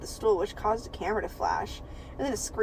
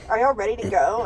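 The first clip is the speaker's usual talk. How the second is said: southern drawl; 4 dB louder than usual. Acted. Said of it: "she said in a southern drawl".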